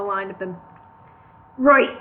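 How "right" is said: suspicious. Acted. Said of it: "he said suspiciously".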